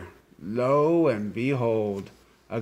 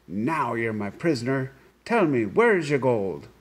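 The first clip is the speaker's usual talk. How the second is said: cried out; 2 semitones higher than usual. Acted. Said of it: "grabbed the sly fellow and cried".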